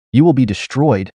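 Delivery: flat emotionless robot monster; lightly voiced cold robot threat. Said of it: "his voice sounding much like an emotionless robot".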